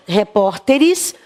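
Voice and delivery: "repórteres" said slowly, stress on PÓR; slow demo word. Shown as a demonstration. Teacher giving another plural example to pupils, slow. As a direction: lean on the stressed syllable of "repórteres". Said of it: "cuidar da sílaba tônica".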